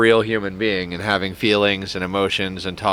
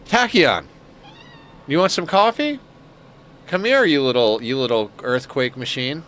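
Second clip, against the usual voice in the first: cooing pet talk; 3 semitones higher than usual. Real, not acted. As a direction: coax the little creature over, sweetly.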